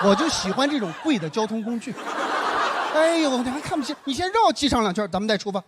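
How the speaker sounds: mock big-spender airs; deliberately sarcastic. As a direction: put on pointed, showy swagger. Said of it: "我就故意这么去说嘛".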